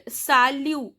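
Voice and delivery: salut said as "sa-lu"; "salut" with the T left silent; silent final T. Shown as a demonstration. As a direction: say "salut" ending on the u, no T sound. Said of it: "T is silent".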